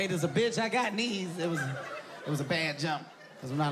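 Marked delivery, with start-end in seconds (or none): 0.0-1.4 indignant retort. Retold or imitated. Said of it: "I was like".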